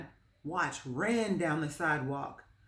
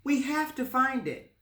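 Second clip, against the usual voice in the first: put-on high, loud determined boy; boy urges his friend to search, high and urgent; 9 semitones higher, 4 dB louder than usual. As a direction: push to go searching.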